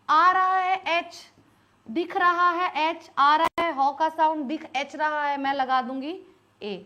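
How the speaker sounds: lightly mocking a learner who sees the h; imitating a learner. Teacher mimics a learner misreading "hour". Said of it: "इसको हवर पढ़ते हैं".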